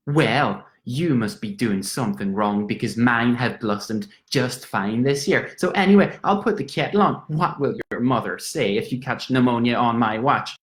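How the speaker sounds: lightly voiced Irish landlady, slowing then brisk; a hint of the chatty old lady; landlady gossiping. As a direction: rattle on like a gossip. Landlady retelling her gossip.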